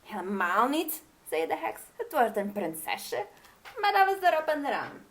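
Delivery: a hint of the witch insisting; lightly voiced witch. Witch reassures queen.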